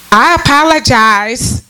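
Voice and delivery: drawn-out, hollow I apologize; mocking apology. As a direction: say it slowly like an empty formula. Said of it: "That's how they say it".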